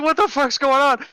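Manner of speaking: high, loud cry of mock disbelief; shrieked, stunned question; shocked. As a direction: imitate someone completely freaked out. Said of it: "shocked look in his face".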